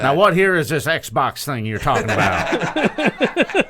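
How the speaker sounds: lightly voiced folksy announcer; puzzled Southern old-timer impression. Commentator baffled by this Xbox thing, mock folksy puzzlement. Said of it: "us doing J R impressions".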